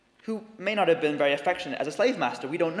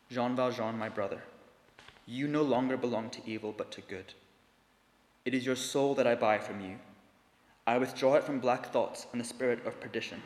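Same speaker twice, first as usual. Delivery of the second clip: with solemnity; 4 semitones lower, 3 dB quieter than usual. Acted. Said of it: "He resumed with solemnity".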